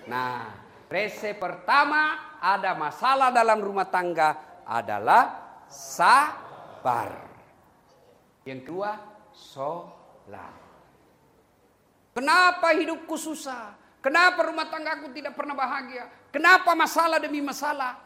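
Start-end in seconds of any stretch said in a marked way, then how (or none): 0.9-7.2 sabar stretched long and low; slow down and lean on sabar; emphatic point. Shown as a demonstration. Preacher drives home the first recipe to the congregation. Preacher stresses the key lesson. 12.1-18.0 louder, whiny rhetorical laments; complaining voice. Pretend. Preacher voices a believer complaining about life. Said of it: "voicing a complaining believer".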